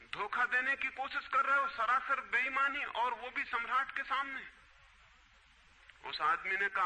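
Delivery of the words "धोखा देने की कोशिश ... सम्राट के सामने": higher-pitched mock royal scolding; acted indignation. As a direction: accuse a cheat, storyteller playing an offended emperor. Emperor accuses seller of cheating. (सम्राट की नाराज़ डाँट का अभिनय)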